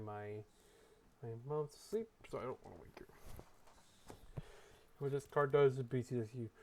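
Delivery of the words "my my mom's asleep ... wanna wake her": hushed so mom can sleep; quiet. Real, not acted. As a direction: keep it low and near a whisper. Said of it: "Sorry, I'm being a little bit quiet".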